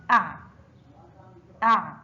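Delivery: أع closed in the throat on ain; letter with sukun. Shown as a demonstration. Teacher shows ain with sukun, أع as a closed syllable. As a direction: say أع as one short syllable ending on ع. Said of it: "حرف العين فوقه سكون ينطق".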